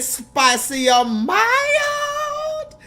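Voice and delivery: very high, very slow sing-song Louisiana drive-thru voice; mock Louisiana drive-thru lady asking spicy or mild; imitating the drive-thru lady. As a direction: stretch it way out like the cashier. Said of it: "She said".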